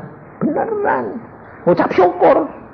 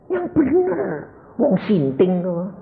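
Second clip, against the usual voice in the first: mock wife; 8 semitones higher, 4 dB quieter, slower than usual. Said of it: "Istri saya bilang gini".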